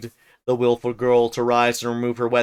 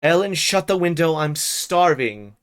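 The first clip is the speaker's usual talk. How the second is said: peevish call; 4 semitones higher than usual. Acted. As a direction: whine at the servant to shut it. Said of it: "Catherine called peevishly to me".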